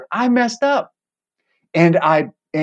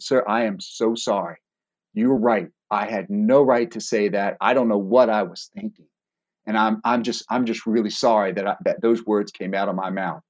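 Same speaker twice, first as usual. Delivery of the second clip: sincere apology; 5 semitones lower than usual. Retold or imitated. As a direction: lower your voice and truly apologize. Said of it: "I'm apologizing".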